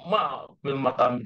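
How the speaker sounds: Ma fil mat'ami with ma pressed; stress on ma. Shown as a demonstration. Teacher answering the imagined friend with stress on Ma. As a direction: lean on Ma. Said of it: "Jadi ma-nya ya tekannya".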